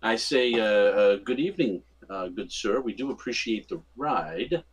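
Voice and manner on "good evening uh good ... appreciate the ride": lightly put-on charm, unhurried at the end; courteous, mildly charming politeness. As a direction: turn on a little polite charm. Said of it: "in my most charming voice".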